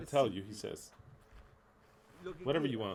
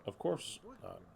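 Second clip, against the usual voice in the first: laughing scoff; 4 semitones higher than usual. Real, not acted. Scoffing at misreading of scripture.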